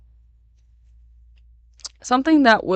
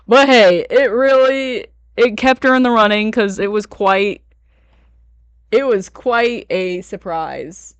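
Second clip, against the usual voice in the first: excited; 3 semitones higher, 4 dB louder than usual. Real, not acted. Excited recap of the dance.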